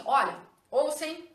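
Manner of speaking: playful imitation of a literacy teacher; a touch of a teacher talking to a child; mock teacher. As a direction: lightly voice a teacher coaxing a child. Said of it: "Então ela fala assim".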